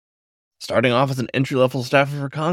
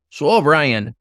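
Johnson's voice; 3 semitones higher, 3 dB louder, slower than usual. A narrator's reading. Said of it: "he asked".

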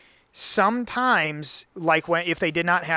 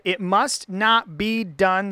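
tag; 3 semitones higher, much slower than usual. Acted. Reads Laban's words dramatically.

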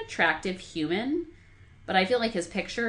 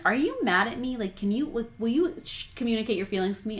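put-on weird girly voice; 4 semitones higher than usual. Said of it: "I just did it in, like, a weird girly voice".

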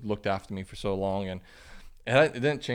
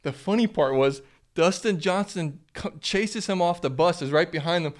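laughing while telling; 7 semitones higher, 4 dB louder than usual. Real, not acted. Laughing through a funny story.

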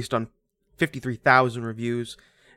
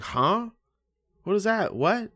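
high-pitched mock confusion; acted bafflement; 8 semitones higher than usual. Podcaster mimics someone confused by method-acting claims, baffled. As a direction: play the puzzled listener, voice lifted.

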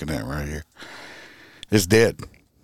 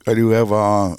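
yawning; 3 dB louder than usual. Real, not acted. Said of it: "excuse me if I'm yawning".

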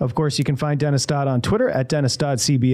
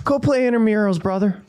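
mock-exasperated, pitched up; 5 semitones higher than usual. Host voicing what he wanted the guest to say, exasperated. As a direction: act out a fed-up dismissal, a bit high. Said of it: "he was so exasperated".

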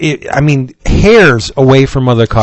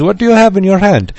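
a lightly voiced cab driver, a little higher; cabbie impression; 5 semitones higher, faster than usual. Cabbie asking about the drawing, lightly imitated. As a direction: slip into the cabbie's way of talking, lightly. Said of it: "this is the way the man talked".

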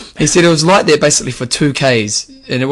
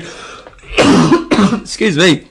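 laughing; 5 semitones higher, much slower than usual. Real, not acted. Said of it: "I'm just dying here".

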